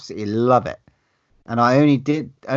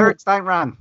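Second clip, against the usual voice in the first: put-on New Zealand accent; 7 semitones higher than usual. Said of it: "a New Zealand accent".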